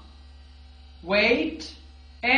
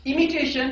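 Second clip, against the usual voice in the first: इमिटेशन said louder and higher; stressed imitation; 3 semitones higher, 3 dB louder than usual. Shown as a demonstration. Teacher stressing the key word to students. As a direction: hit इमिटेशन firmly. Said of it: "सबसे अहम चीज ये है जिसे हम कहते हैं इमिटेशन।".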